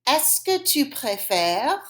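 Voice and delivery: slow French question, rising at the end; measured language-teacher question; repeat-after-me model. Shown as a demonstration. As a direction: repeat it slowly for the class. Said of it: "Say it after me".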